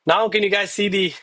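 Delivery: winded after the workout; out of breath. Real, not acted. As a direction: talk while still catching breath. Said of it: "God, I'm winded".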